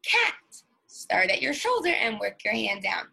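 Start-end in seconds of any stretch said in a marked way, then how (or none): 0.0-0.3 cat said slowly and high, sound by sound; teacher modelling "Cat." for segmenting; drawn-out word demo. Shown as a demonstration. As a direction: stretch out "Cat." while sliding the arm down. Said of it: "Do this".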